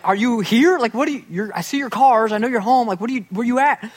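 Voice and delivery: calling to parents who won't answer. Retold or imitated. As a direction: call into the house, puzzled. Knocking at parents' back door.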